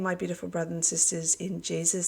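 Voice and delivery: talking through a worn-out throat; hoarse voice. Real, not acted. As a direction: voice going, a bit hoarse. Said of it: "Pardon my voice".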